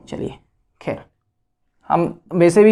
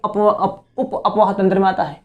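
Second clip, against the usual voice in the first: laughing; 2 semitones lower, 4 dB quieter than usual. Real, not acted. Stumbles over word, laughs.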